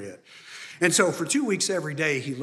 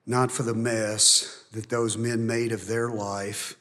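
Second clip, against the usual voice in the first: closing prayer; 2 semitones lower than usual. Acted. Pastor leading the church in prayer, hushed.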